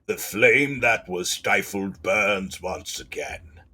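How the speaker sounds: slow, otherworldly voice of an ancient spirit; ancient being voice. Acted. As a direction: drag it out like something old awakening. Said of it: "That's an awful voice".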